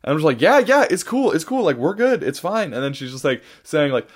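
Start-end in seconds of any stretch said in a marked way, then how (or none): 0.4-2.7 higher, hurried-to-agree reassurance; retold placating. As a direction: placate someone upset, starting high and easing down. Placating a yelling stranger, retold.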